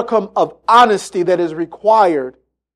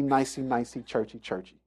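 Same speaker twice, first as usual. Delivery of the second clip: mocking churchy; 7 semitones lower, 13 dB quieter than usual. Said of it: "I don't have time to be".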